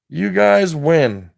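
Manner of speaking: slow, spaced repeat; slow, emphatic. Shown as a demonstration. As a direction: lean on each word slowly. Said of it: "Let me say it again".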